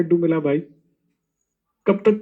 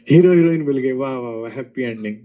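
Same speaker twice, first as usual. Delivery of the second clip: mock cheering; 4 semitones lower than usual. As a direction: lightly mimic a satisfied viewer, sneering. Mocks viewers cheering happy ending.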